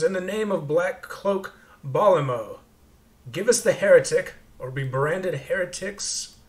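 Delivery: lightly acted zealot issuing a threat; irritated leader. Armed leader demands the heretic from strangers, irritated command. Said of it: "he just looks irritated".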